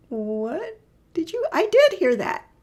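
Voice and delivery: slow start, then a loud high burst; hammed-up cow, amazed she heard it; excited cows. Cows exclaim they heard the human's hello, hammed-up and loud. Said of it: "the other two go like".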